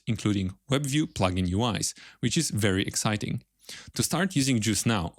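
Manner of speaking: scripted podcast ad read with lilting emphasis on key words; sponsor read. Acted. Host pauses the interview to plug the sponsor, scripted ad read. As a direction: read the sponsor message in measured, rehearsed phrases.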